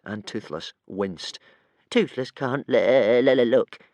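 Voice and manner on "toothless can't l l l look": stuttering little dragon, lightly moaned; a hint of a whimper; moaning dragon. A narrator's reading. Small dragon hiding his eyes, moaning mildly. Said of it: "moaned Toothless".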